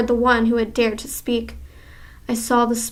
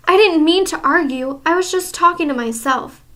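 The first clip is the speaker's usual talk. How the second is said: a hint of a cowering witch, higher; fearful pleading; 5 semitones higher, 3 dB louder than usual. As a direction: plead in fear.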